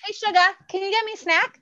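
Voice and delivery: high-pitched Southern belle ask; sweet Southern accent, a child asking for a snack. Retold or imitated. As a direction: daughter imitated in a Southern accent. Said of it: "calls me sugar with, like, a Southern accent".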